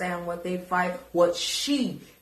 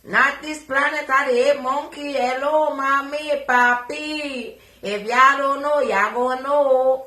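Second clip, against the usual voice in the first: loud excited greeting; 5 semitones higher, 6 dB louder than usual. Real, not acted. Loud playful greeting to viewers.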